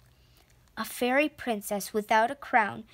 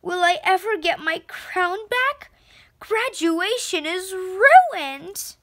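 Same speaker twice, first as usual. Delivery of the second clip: dramatic despair; 6 semitones higher, 4 dB louder than usual. A narrator's reading. Girl mourning her lost crown at graduation, dramatic despair. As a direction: wail it like a tragedy queen.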